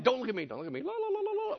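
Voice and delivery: rising to high la la; mock panicked demon. Demons avoiding Jesus's look, mock panic. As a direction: cover your ears and sing away.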